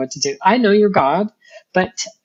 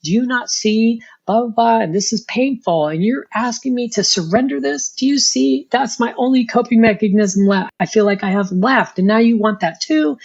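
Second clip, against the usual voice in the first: higher pitched, exasperated complaining, retold; replaying a heated rant at God, pitched up; mock rant at God; 5 semitones higher than usual. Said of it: "giving him the what for".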